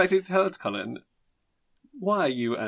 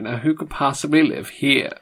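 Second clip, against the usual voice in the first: Lloyd Grossman, lower. Retold or imitated. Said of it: "That was my low-pitched voice".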